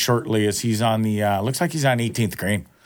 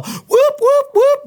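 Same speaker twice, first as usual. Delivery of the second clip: high, loud whooping cheer; mock celebration whoop; 5 dB louder, much slower than usual. Mocking the lottery machine's missing celebration with a loud whoop. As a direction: whoop it up like a jackpot siren.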